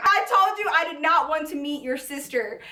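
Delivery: ordinary talk, nothing marked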